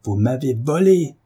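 « volé » lancé plus haut et plus fort; le répéter en tonnant; voix éclatante. Acted. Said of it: "d'une voix si éclatante". (le mari accuse sa femme d'une voix éclatante)

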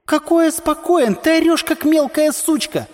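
mock him in a high shrieking voice; Madna's retort. A narrator's reading. Madna jumps into the quarrel, high jeering shout. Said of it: "включилась в обсуждение Мадна".

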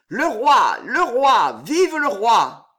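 loud, high cheering cries; crowd cheering. A narrator's reading. Crowd cheers the arriving king.

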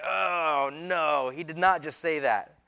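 drawn-out scandalised "oh"; mock shock. Religious leaders reacting to Jesus' claim, mock shocked. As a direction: imitate stunned, scandalised listeners. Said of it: "tip back onto their heels and be like".

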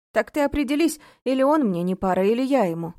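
loud pointed question; demanding challenge. A narrator's reading. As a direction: push her to decide. Oleg challenges her.

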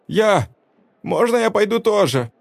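put-on high childlike voice; a little boy begging to tag along; eager boy asking to go. A narrator's reading. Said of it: "Выскочил прежний неумытый мальчишка".

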